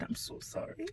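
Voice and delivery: very soft, whispery retold sympathy; hushed apology. Sonographer to patient after the scan, hushed apology.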